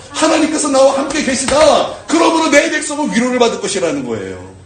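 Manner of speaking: rising, loud preaching voice, slowing on the key line; fervent preaching. Acted. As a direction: preach it out to the congregation. Preacher building to full force.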